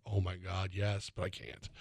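a hushed, torn mock yes; retold quiet longing. Turning down a Hooters lunch from buddy Zach, softly pained. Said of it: "I'm like".

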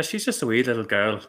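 light put-on Irish accent; playful attempt at Irish. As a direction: imitate Irish speech, leaning on wee. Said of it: "you do a pretty good Irish accent".

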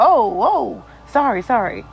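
lightly imitated apologetic stranger; a hint of her apologizing voice; stranger's way of talking. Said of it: "That's how she talked".

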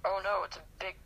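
mock alarm with little real feeling; dry, sarcastic doom. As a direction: feign dread at the big deal. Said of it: "He definitely notices the sarcasm".

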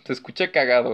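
laughing through the repeat. Real, not acted. Vlogger repeats the insult he found funny, laughing. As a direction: break into a laugh as you repeat it.

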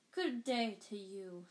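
misty voice. Acted. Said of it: "familiar misty voice".

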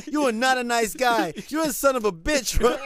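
loud, high mock outrage; outraged cursing. Retold victims cursing departing man.

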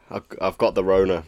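blocked-nose voice from a cold; nasal cold voice. Real, not acted. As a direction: talk through a nasal cold. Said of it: "nasally cold voice going on".

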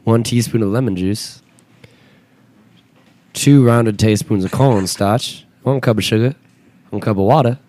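a light mock Michigan accent reading ad copy. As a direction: read the blueberry ad in a faint Michigan accent. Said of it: "the best Michigan accent I've ever heard".

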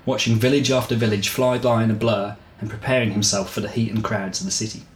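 measured audiobook-style reading; story narration. A narrator's reading. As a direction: read the story out evenly, phrase by phrase. Reads the chapter aloud.

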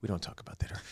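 conspiratorial whisper; mock-secret whispered repeat. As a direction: hush it like a secret rule. Repeat of the line, hushed.

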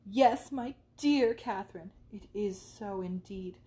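slow, lightly voiced effusive young lady; a hint of a fawning friend; gushing friend. Isabella begins gushing.

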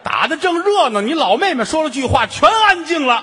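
high, loud, breathless telling; storyteller hyping up a family brawl; frantic storytelling. Acted.

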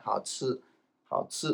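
好吃 said softly as "hao tsu"; southern 吃 pronunciation. Shown as a demonstration. Teacher shows southern speech, 好吃 as "hao tsu". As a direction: soften 吃 in 好吃 to a "tsu". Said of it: "南の方は".

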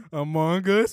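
slow, stretched game voice; Among Us voice. Retold or imitated. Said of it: "do your best impression of the, uh, the fucking Among Us sounding".

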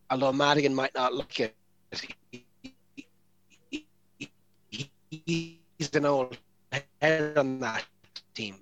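glitchy robotic connection voice; broken-up robot voice over a bad line. Real, not acted. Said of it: "'Cause you were doing a robot voice".

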